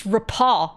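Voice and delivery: RAPPORT said as "repaw"; British pronunciation. Shown as a demonstration. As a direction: end "repaw" on an open aw, no r. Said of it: "in British it's repaw".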